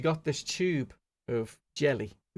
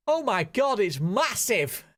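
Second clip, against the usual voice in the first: high, slow amazed gasp; amazed exclamation; 5 semitones higher, slower than usual. Retold or imitated. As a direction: gawp at it in awe. Exclaims at screen.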